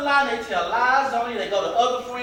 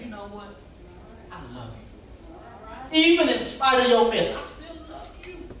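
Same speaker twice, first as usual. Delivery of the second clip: tender; 4 dB quieter than usual. Pretend. Speaking love to a slanderer.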